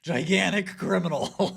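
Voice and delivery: put-on high-pitched comic Albanian accent; mock Albanian accent. Comic piling on the Albanian stereotype, mock Albanian accent. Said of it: "Stereotypes associated with Albanians".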